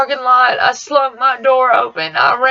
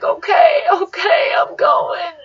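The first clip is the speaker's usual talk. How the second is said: panicked; 7 semitones higher than usual. Retold or imitated. Panicked reply to rushing mom.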